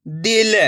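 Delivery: दिल with a brief, unstretched i; short i. Shown as a demonstration. Teacher repeating the blended word for learners, दिल with short i. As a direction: say दिल with the vowel kept short. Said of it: "तो कम खींच के पढ़ेंगे".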